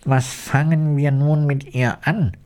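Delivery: put-on fretting over the sleeping girl; worried. A narrator's reading. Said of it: "fragte der Holzfäller besorgt".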